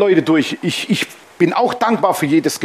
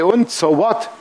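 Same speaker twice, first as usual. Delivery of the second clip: casual shrug; 2 semitones higher, slower than usual. Retold or imitated. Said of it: "Natürlich nicht so, wie salopp".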